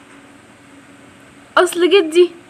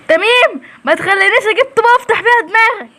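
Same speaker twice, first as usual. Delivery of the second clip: angry threat; 5 semitones higher than usual. Acted. Woman threatens the boy.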